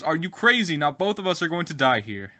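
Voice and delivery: high, loud panicked protest; alarmed frog. Acted. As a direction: cry out in shock at being bitten. Frog bitten midstream, alarmed.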